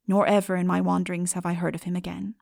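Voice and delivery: ordinary delivery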